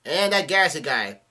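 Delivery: high, loud roll call of names; yelling out. A narrator's reading. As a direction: call each crewmate out loudly. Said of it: "And Luffy's yelling out".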